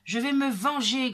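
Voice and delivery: loud, vengeful woodcutter; angry grumble. A narrator's reading. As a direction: growl out a loud vow of revenge. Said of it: "grogne le bûcheron". (grognement fort et vengeur)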